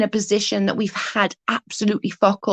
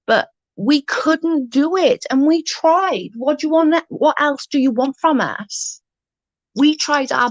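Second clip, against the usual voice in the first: exasperated plea; 4 semitones higher than usual. Real, not acted. Defending herself to an online critic, exasperated. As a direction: throw it back at them, fed up.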